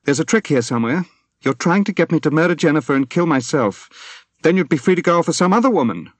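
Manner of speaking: loud, high furious accusation. A narrator's reading. Wife accuses husband of a trick, furious loud outburst. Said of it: "She said furiously".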